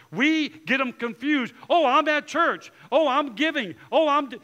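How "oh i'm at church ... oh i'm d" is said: mock churchgoer. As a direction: lay on the martyrdom. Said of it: "that's sacrifice".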